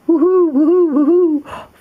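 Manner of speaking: playful high whoops; racing whoops. Acted. Coyotes racing.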